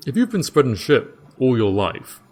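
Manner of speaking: bewildered jailer, thinking it through aloud; Dave the jailer. Acted. Dave explains his theory.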